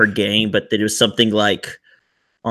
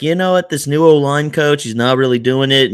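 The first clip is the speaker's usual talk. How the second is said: pitched higher, lightly voiced coach complaining; quoting Jason complaining about the O-line coach, pitched up; mock Jason voice; 4 semitones higher than usual. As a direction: play Jason a touch high and fed up. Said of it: "Jason's like".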